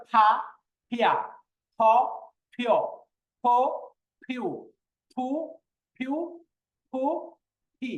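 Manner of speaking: each syllable from ফা to ফি popped off both lips with air; forceful aspiration. Shown as a demonstration. Teacher drilling the last pressured letter, ফ strongly aspirated. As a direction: press the lips and puff out every ফ. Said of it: "বেশি pressure দিয়ে উচ্চারণ করা".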